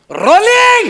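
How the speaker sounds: high, booming crew yell; shouted cue. Acted. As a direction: blast the call out to the whole set. Crew yells the cue again.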